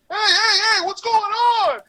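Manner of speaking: very high silly side voice; odd side character. Retold or imitated. Actor showing the director a throwaway extra, very high and silly. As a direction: pitch it way up so it sounds like nobody main. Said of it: "anything that didn't sound like the main character".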